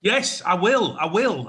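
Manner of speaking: accepting a proposal. Acted.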